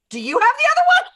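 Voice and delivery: high, loud, quick imitation of sister; incredulous question. Sister asking on video chat for the missing sock, high incredulous question. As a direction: ask it high and fast, astonished.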